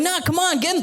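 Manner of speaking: put-on high kid voices begging; squeaky kids calling him in; kids' voices. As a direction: plead like little kids.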